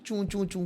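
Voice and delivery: light, soft squeak imitation; small "choon choon" squeaks; squeaky baby shoes. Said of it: "उसके नए shoes आते हैं".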